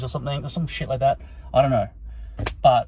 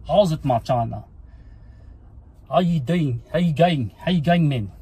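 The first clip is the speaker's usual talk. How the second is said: put-on South African accent; 2 semitones higher than usual. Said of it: "get into the character".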